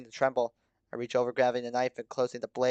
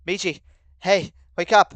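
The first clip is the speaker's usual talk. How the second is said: higher, building to a shout; calling urgently; 6 semitones higher, 9 dB louder than usual. A narrator's reading. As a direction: rouse them with sharp calls. Trying to rouse someone unresponsive.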